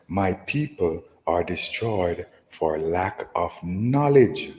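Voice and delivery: slow, solemn King James reading; scripture reading. Acted. Teacher reading Jeremiah to his listeners, slow and solemn. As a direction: draw each phrase out like holy writ. Reads Hosea verse aloud.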